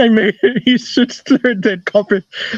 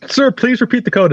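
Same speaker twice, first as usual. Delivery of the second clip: higher-pitched, mock-exasperated demand; insistent telemarketer; 6 semitones higher than usual. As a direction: imitate a caller pressing for an answer. Retold telemarketer insisting once more.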